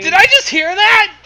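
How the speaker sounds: high, loud astonished question; incredulous. Real, not acted. Friend questioning the reading, astonished and high. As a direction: ask it as if you misheard.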